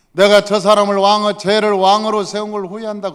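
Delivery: loud, high proclamation; forceful divine regret. Acted. God tells of regretting making him king, forceful. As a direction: declare it hard, as God's regret.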